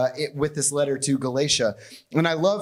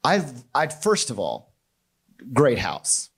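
lightly voiced chatty firefighter gushing over the house; mock polite firefighter. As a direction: firefighter making mock pleasantries with a homeowner. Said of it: "I'm pretty sure they don't say".

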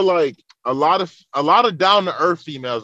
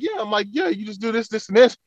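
higher-pitched, obliging mock cluelessness; clueless dumbass; 6 semitones higher than usual. Man mimicking himself explaining the gym machine, clueless dumbass. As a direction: play yourself as the oblivious helper. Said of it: "like a dumbass".

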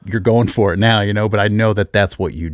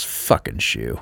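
low, soft grumble under the breath; retold quiet, low curse; imitating muttering son; 10 semitones lower, 6 dB quieter, slower than usual. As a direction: grumble it low like a frustrated little kid. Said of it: "he just goes".

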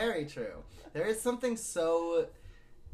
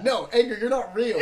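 mock dismissive; 7 semitones higher, 13 dB louder than usual. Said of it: "we're like".

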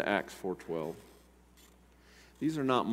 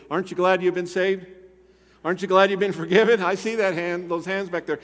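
loud, high, impassioned preaching; rousing altar-call preaching; fiery preaching; 9 semitones higher, 9 dB louder than usual. Acted. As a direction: preach it out with full force to the room. Preaching at full force.

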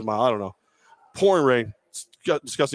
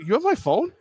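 incredulous question; 11 semitones higher than usual. Retold or imitated. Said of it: "I'm like".

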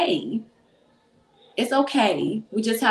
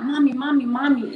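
lightly voiced insistent kid, a little higher; pestering child; 4 semitones higher, 3 dB louder than usual. Kids calling their mom in her ear, pestering. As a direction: imitate a kid nagging for attention.

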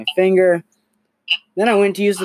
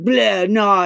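high, loud imitated 'Bleh' of disgust; retold disgusted 'Bleh' scoff; mock disgusted bleh; 6 semitones higher, 4 dB louder than usual. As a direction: spit out 'Bleh' like the toothless guy. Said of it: "he made that sound".

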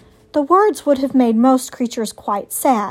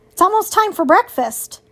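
higher, sly fox voice; sly hungry fox; 7 semitones higher, 3 dB louder than usual. A narrator's reading.

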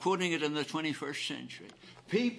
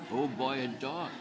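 holding back emotion; 4 semitones lower than usual. Real, not acted. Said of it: "I'm not gonna get emotional".

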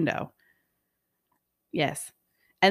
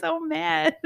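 laughing exasperation; 9 semitones higher, 3 dB quieter than usual. Real, not acted. Laughing at own anger.

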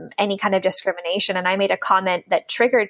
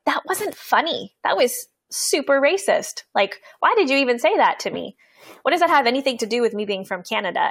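higher, indignant callout of a racist remark; retold calling out; 4 semitones higher than usual. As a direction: confront him, pitch up and appalled. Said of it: "I looked at him and I was like".

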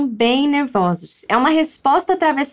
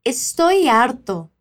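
slow model phrase; 3 semitones lower, slower than usual. Shown as a demonstration.

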